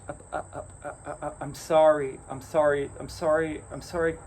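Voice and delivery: put-on a scared kid tripping over his words; stammering sorry to the giant cat; stammering apology. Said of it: "Balor's son just stammers".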